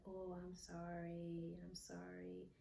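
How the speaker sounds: retold apology. Retold apology while hugging her.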